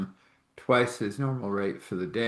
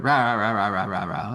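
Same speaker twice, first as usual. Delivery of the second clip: rapid mock-grumbling rah-rah-rah; mock blustering; 3 dB louder than usual. Fired boss protesting to the owner, mock blustering. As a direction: imitate someone ranting in nonsense syllables.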